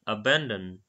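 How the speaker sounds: "Abandon" with an open ah in the middle, uh-BAHN-dun; British "Abandon", "ban" rhymes with "bun"; British pronunciation. Shown as a demonstration. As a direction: echo the British clip: "Abandon" with a broad a. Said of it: "British pronunciation".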